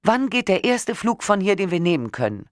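high, panicked call down the line; a frightened cry, pitched high; shouting into the phone. A narrator's reading. Woman shouting into the phone at the official, panicked. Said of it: "Ich schrie ins Telefon".

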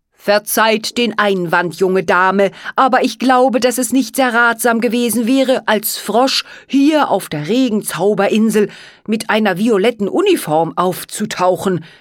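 lightly voiced formal frog, politely objecting; courtly frog servant. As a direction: raise your voice a little and object courteously.

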